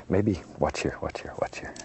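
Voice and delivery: hushed, confiding whisper. Real, not acted. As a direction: lean in and whisper. Whispering to viewers while painting.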